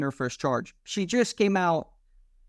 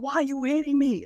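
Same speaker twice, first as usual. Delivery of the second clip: squeaky mock-indignant whine; mocking high voice; 10 semitones higher than usual. Cop mimicking the armed woman's protest, mocking high whine. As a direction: pitch it way up, mocking her.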